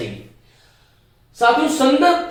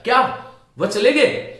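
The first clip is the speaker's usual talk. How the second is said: क्या thrown out in surprise, rising to गए; disbelieving exclamation; surprised question. Shown as a demonstration. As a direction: sound stunned by the news. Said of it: "यहां पर अनुतान से पता चलता है".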